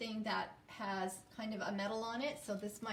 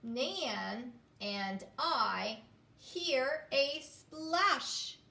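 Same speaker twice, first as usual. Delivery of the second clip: slow reading aloud; 2 semitones higher, much slower than usual. Shown as a demonstration. Teacher reading the sentence very slowly. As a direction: read it slowly for the class. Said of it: "sentences I'm going to read".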